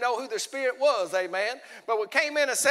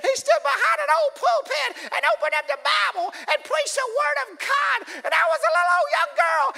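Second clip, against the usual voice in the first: much higher, giggling, shouting church lady; laughing old woman; 13 semitones higher than usual. Retold or imitated. Old woman telling the preacher how she got saved, laughing and high. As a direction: laugh through it like a joyful little old woman. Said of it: "she'd laugh while she's talking".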